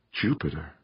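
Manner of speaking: soft, stunned murmur of the word. Acted. Mother murmuring the name of the distant station, quiet. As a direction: breathe it out quietly in disbelief. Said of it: "Pauline murmured".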